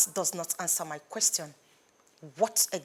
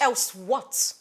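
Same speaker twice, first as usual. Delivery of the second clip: defiant challenge; 2 semitones higher, 4 dB louder than usual. Acted. Stella challenges the threat.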